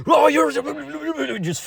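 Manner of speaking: put-on very high, loud, squeaky old-man screech; mocking grandpa. Grandpa freaking out at me over the light bulb, squeaky high mock screech. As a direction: shriek it like a flustered grandpa. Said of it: "He's like".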